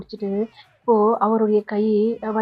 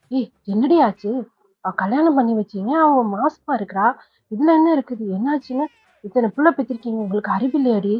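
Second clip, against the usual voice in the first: scolding grandma. Acted. Grandmother scolding her daughters for not telling her. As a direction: tear into them like an outraged grandma.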